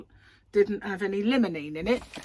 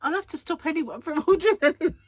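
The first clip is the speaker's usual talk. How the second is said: mock panic; 9 semitones higher, 6 dB louder than usual. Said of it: "I went".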